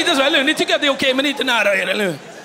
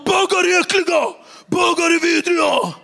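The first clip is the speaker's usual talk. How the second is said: mock angry rant; 4 semitones higher than usual. Zoran ranting against gays.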